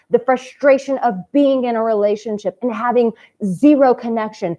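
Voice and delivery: earnest and fired up, lifting as it goes; passionate. Shown as a demonstration. Coach showing men how to speak with passion, earnest. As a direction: pour it out like it's your life's purpose. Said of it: "if I said it the way I just said it".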